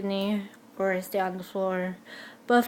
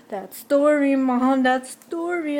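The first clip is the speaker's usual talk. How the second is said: excited gasp; 5 semitones higher, 4 dB louder, slower than usual. Retold or imitated. Spotting idol, excited to mom.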